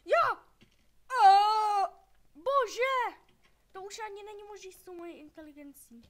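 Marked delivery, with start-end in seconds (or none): 0.1-3.2 loud, high burst of alarm; a sudden alarmed cry, louder and higher; startled outcry. Real, not acted. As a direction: yelp it out in sudden shock. Startled outburst in game.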